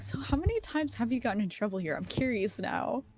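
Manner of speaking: discreet, dropped voice. Playing a character who questions a companion quietly: lowered voice. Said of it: "Vance will just kinda lower his voice".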